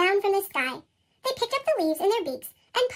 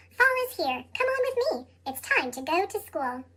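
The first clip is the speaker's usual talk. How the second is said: reading a poem. Acted. Reads a children's poem.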